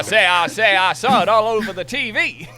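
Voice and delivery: high, loud mock English lady accent; loud, high posh English accent; hammed-up English lady. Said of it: "That voice".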